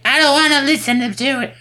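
high-pitched mock brush-off; dismissive refusal. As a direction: imitate someone refusing to hear it. Quotes wife brushing husband off.

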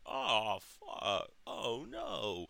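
half-hearted imitation of mom yelling; mild mock yell. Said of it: "and yell out".

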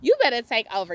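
loud, fervent praise, slowing on Oh my God; getting excited. Real, not acted. Caught up preaching to her viewers, loud fervent excitement. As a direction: let the joy take over and shout it out. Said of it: "I got excited".

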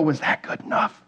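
hushed anxious whisper in her ear; whispered plea for reassurance. Retold or imitated. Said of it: "I would whisper in her ear".

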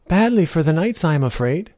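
put-on a sly old woman, sweetly persuasive; old beggar woman. Old woman tempts knight.

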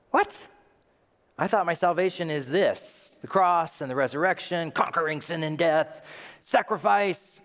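high-pitched, startled protest; incredulous objection. Acted. Puzzled believer questioning what salvation is, incredulous.

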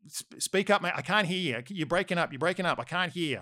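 mock phone shouting over static. Friend shouting over bad phone line.

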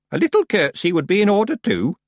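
put-on high-pitched reproving old woman; prim old witch. Miss Treason prompting Tiffany to curtsy, prim. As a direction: prompt the child pointedly.

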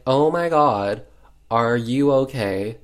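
hammed-up concern; mock alarm. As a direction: act out a worried rescuer. Rescuer reacting to her fall.

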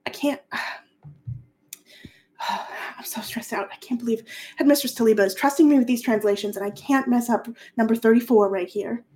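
put-on a fussy young scholar sighing over his work; hint of a stressed-out academic; Hasno the nervous scholar. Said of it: "and Hasno's like".

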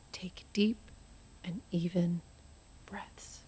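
hushed séance whisper. Acted. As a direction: breathe the words softly, unvoiced. Séance medium hushing the table.

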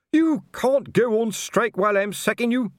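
high, loud outrage; outraged shout. Acted. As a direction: yell it at them.

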